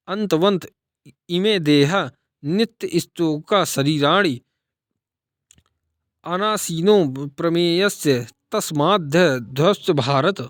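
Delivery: measured verse recitation; Gita recitation. A narrator's reading. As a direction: recite it like a radio path. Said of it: "radio पर गीता पाठ".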